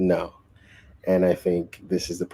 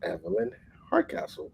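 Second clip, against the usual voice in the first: much higher mock call of the name; yelling it louder; 12 semitones higher, 6 dB quieter than usual. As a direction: call the name out, pitched up high. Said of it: "Then she yells it out louder".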